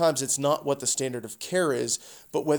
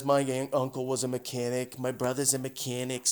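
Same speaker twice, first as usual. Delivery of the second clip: amateur attempt at an Italian-American accent; lightly imitated Italian accent; 5 dB quieter than usual. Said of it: "I'm doing my Italian accent".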